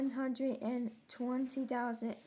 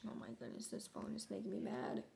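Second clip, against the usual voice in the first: whispered frustration; 4 semitones lower, 10 dB quieter, much faster than usual. Real, not acted. Frustrated aside about phone.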